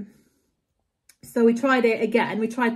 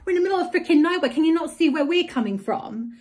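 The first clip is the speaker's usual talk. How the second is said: much higher and fast, exasperated retold rant; angry outburst; 6 semitones higher than usual. To the taxi driver in the middle of nowhere, a fast exasperated rant. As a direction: blurt it out fast in retold fury. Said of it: "I was just so angry".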